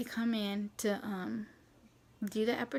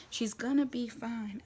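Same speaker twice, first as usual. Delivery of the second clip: unhurried, even reassurance; mild reassurance. Retold or imitated. Mom calming the panicking husband, mild reassurance. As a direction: lightly imitate a mom calming someone, taking it slowly.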